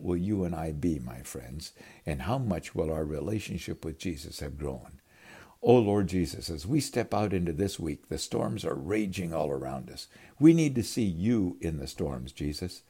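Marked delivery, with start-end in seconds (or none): 5.6-12.8 earnest closing prayer; a heartfelt spoken prayer. Acted. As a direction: pray it over the listeners.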